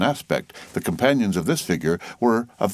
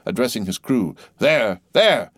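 high, loud excited calls; eager urging; 11 semitones higher, 3 dB louder than usual. A narrator's reading. Mate urges his crew on, excited. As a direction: spot the whale and drive the rowers.

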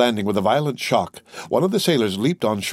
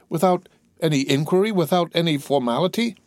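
higher, rising questions of disbelief; incredulous protest; 6 semitones higher than usual. Acted. Prisoner hears there's no inquiry, incredulous protest. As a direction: question each phrase with mounting dismay.

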